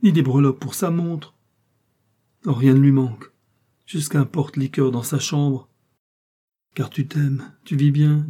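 high, loud scornful tirade; indignant outcry. A narrator's reading. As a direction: list his luxuries as accusations. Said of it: "s'écria-t-elle".

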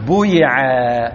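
بويعا said slowly, with a long rounded u after the b; teacher slowly modelling بويعا; passive form drawn out. Shown as a demonstration. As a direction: stretch بويعا out slowly so the u-sound is clear. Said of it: "نقول إيه؟".

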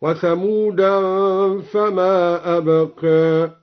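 ثمودا said with tanwin as thamudan. Shown as a demonstration. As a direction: read وثمودا with tanwin, slow on فما أبقى. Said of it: "بالتنوين مصروفا هكذا".

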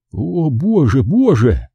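dismayed cry, starting high and falling; horrified exclamation. A narrator's reading. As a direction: lament in shock. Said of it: "выкрикнул это вслух".

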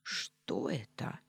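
slow hushed whisper. Acted. Heroine whispers a question at the floating ghost. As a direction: barely breathe the question.

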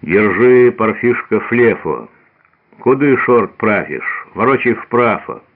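put-on old woman's lisp, Ш for С, Ф for С: «флефу», «шорт», «прафишь»; slushy lisp. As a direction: lisp through missing teeth, «Куды шорт прафишь?». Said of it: "шепелявый голос Фёнки".

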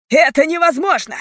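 high, loud, cross cry; angry shout. A narrator's reading. Leader told police are inside, angry shout. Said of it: "крикнул он сердито".

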